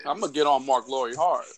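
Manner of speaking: hushed teasing threat; whispering. Real, not acted. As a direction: whisper it like a secret.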